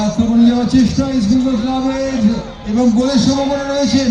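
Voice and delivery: rising, urgent call of a chance; excited commentary. Real, not acted. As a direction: build the tension of an attack. Commentator calls a goal chance. (উত্তেজিত ধারাভাষ্য)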